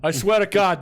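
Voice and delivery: laughing while talking. Real, not acted. Host laughing at his own punchline. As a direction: talk while still laughing.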